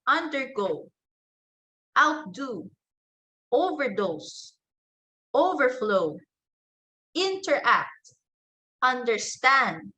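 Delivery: "undergo", "outdo", "overdose", "overflow", "interact", "understand" stressed on the last part; stress on second word. Shown as a demonstration. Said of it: "the stress is placed on the second word".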